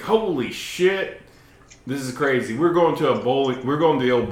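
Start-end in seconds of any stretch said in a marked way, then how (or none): 0.0-2.6 stunned retold gasp. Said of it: "I was like".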